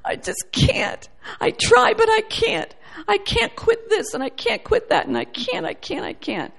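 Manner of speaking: a hint of a defeated complainer; mock whining despair. Preacher mimicking a person who gives up, high then fading. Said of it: "it's like".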